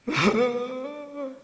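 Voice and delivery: high, put-on wail shown to the children; playful fake sob; mock crying sound. Shown as a demonstration. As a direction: act out a man weeping for the kids. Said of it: "이렇게 울었어요".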